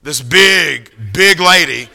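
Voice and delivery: "big" loud and drawn out, then repeated; stretched, punched "big, big"; emphasis on BIG. Shown as a demonstration. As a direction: lean hard on both BIGs. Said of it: "emphasis on big".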